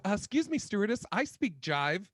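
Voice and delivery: high prim movie-quote voice; Airplane jive line. Retold or imitated. Quoting the Airplane jive scene, prim. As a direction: quote Airplane's old lady primly. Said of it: "shout out to the movie Airplane".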